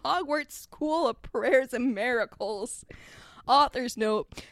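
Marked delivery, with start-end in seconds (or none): 0.0-2.8 slow, stately reveal; grand announcement. Acted. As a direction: draw out the name grandly. Hagrid solemnly announces the school's name.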